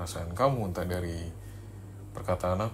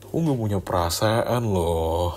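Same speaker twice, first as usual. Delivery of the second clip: slow and louder, leaning on nggak; insistent; 5 dB louder than usual. Acted. Insisting to the girlfriend she has no feelings, slow and louder. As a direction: hammer home that she feels nothing.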